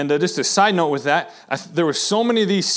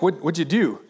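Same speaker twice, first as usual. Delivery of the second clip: genuinely curious. Shown as a demonstration. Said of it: "Just wanting to know".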